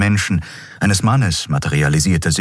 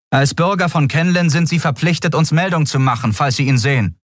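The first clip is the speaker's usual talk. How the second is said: guard ordering; 11 semitones higher than usual. A narrator's reading. Guard instructs Xea.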